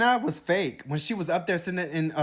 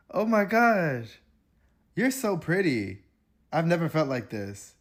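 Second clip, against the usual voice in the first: mock swooning girl; slower than usual. Mocking Taylor swooning over Clark, slow and gushing. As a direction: gush with dreamy awe. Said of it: "This is how they sound".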